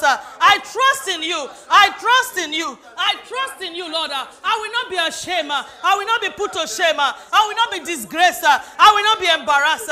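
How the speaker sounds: preacher driving the congregation to faith; fervent preaching. Acted. Preaching at full force.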